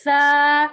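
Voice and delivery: "سا" with the tongue between the teeth; soft letter demo. Shown as a demonstration. Teacher showing students the soft "سا". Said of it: "دونوں دانتوں کے بیچ میں جب زبان آتی ہے".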